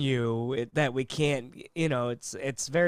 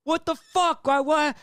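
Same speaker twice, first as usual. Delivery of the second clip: much higher, indignant outburst; mock outraged yell; 10 semitones higher than usual. Customer throwing a fit at the drive-thru, high outrage. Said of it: "And he's like".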